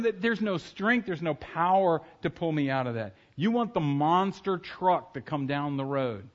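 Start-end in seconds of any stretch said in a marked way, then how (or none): none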